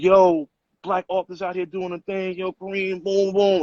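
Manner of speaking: mock-hyped street sales pitch; retold hype. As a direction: retell an excited shout-out without shouting. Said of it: "I was so hyped".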